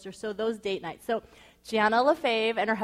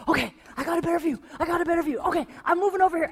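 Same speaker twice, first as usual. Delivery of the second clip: mock spy report; 7 semitones higher, 4 dB louder, much faster than usual. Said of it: "He's like".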